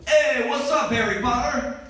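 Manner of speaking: put-on loud, high greeting in a Hispanic accent. Tattooed guy greets the passing comedian, Hispanic accent. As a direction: call it out boldly, Hispanic accent. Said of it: "I apologize for this accent".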